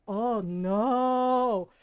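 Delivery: loud, horrified gasp of a reply. Retold or imitated. Aunt hears who made the gesture first, horrified. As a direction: sound appalled by the news. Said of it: "she looked horrified".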